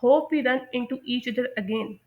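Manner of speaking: slow, clear closing phrase; slow model sentence. Shown as a demonstration. Teacher slowly modelling a goodbye line. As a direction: say it slowly for learners to copy. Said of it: "इस तरह के sentence बोल सकते हैं".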